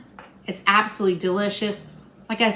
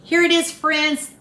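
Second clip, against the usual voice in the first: excited reveal; 7 semitones higher, 5 dB louder than usual. Real, not acted. Presents the finished dish.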